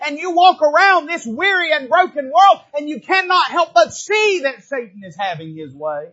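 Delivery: preaching shout. Real, not acted. Preacher shouting to the congregation about the weary world. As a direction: preach it hard at full voice. Preacher builds to full cry.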